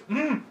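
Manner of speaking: imitated disappointed dad's hum; wordless angry grunt. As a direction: grunt it, too angry to speak. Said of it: "Your dad just made this noise".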